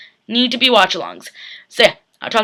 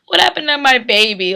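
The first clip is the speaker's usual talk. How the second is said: mock wail; 3 semitones higher than usual. Wailing over a dead character.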